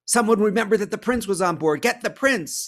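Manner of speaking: high, loud shout for help. Acted. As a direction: shout for the prince. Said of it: "they shouted".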